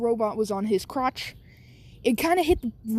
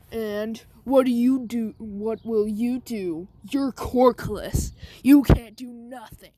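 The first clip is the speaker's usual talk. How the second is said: a retold taunt that gets louder and slow, ending in a shout; mock angry Bakugo; 3 dB louder, slower than usual. Kid retelling Bakugo taunting Deku, mock angry. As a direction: sneer it slow, then bark the last line. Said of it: "Bakugo's like".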